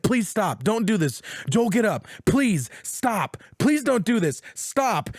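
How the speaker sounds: mildly desperate begging, pitch creeping up; acted pleading. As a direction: beg the attackers in short bursts. Acting Ellie begging for Joel's life.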